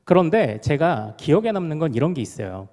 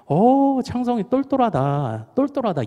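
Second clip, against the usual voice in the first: admiring praise; 8 semitones higher than usual. Retold or imitated. Older sister's friends praise young boy.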